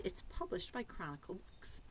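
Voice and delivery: whispered aside. Acted. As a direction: say it softly like a secret.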